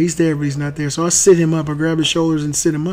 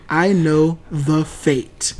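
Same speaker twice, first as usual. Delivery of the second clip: very slow, hollow otherworldly line; eerie prophecy; much slower than usual. Retold or imitated. Son touching dad's forehead, slow and eerie. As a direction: intone it like a spaced-out oracle.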